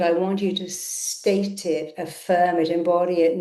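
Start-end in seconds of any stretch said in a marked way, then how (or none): none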